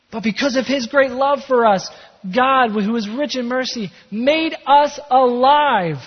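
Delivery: rousing, high-energy pulpit proclamation; excited scripture reading. Real, not acted. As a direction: proclaim the verse with real excitement, stretching the last words. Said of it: "with maybe a little bit more excitement".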